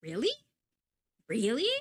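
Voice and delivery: mildly incredulous, questioning rise; retold surprise. Streamer retelling hearing of replaced voice actors, mild surprise. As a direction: replay your puzzled reaction, lifting the end of each question. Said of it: "I was surprised. I was like".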